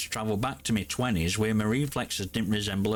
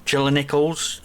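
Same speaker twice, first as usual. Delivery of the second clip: louder, raw unfiltered mic sound; name called out with the audio filters off; 3 semitones higher, 7 dB louder than usual. Shown as a demonstration. Gamer addressing a doubter by name, unfiltered and louder. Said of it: "This is the horrible sound without the filters".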